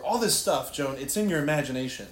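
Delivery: accusers at a trial. Acted. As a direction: put the charge to her with mild mock insistence. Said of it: "And they said to her".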